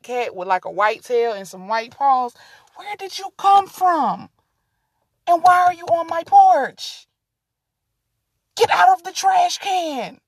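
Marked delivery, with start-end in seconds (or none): 2.7-10.2 talking to the cat. Real, not acted.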